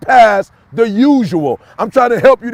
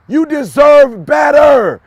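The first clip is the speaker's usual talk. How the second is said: slow, loud, firm self-affirmation; say it flat out; 3 semitones higher, 3 dB louder, slower than usual. Shown as a demonstration. Coach telling viewers what to say to the mirror, slow and loud. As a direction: declare it to yourself, drawn out and loud. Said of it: "look at yourself in the mirror and say flat out".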